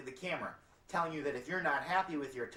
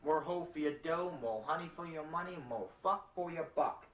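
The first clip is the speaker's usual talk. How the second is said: singsong ad pitch, raised at each line end; mock commercial slogan; 2 semitones higher than usual. Pitching Antonio's Whorehouse in a spoof commercial, slogan voice. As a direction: chant it like a cheesy jingle tagline. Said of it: "unfilmed commercials was Antonio's Whorehouse".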